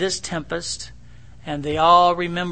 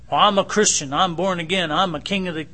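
mock proud believer, louder; mock boastful christian; 3 dB louder than usual. Preacher mocking proud believers who think they're big. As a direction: puff up like a smug churchgoer. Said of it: "You know, all this stuff".

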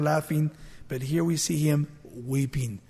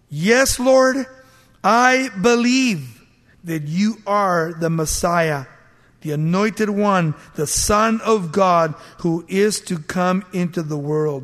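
earnest confession; 4 dB louder than usual. Acted. Martha's confession quoted in sermon.

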